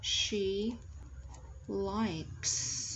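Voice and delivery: "likes" drawn out to its final S; dictation pace. Shown as a demonstration. Teacher dictating the answer for note-taking, slow "likes". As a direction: dictate "likes" slowly, after a pause.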